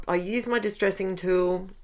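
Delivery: ordinary talk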